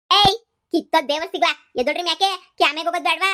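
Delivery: loud scolding yell at the sleepers; scolding shout. Acted. Grandma yells at lazy family, loud scolding. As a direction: bark them out of bed.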